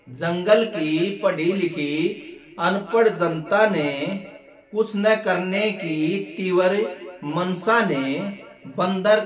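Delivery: measured Hindi verse with drawn-out, lilting line endings; comic poem recitation. Acted. Comedian recites a satirical poem about a monkey leader, poetic lilt. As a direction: recite it like a stage poet, stretching the phrases.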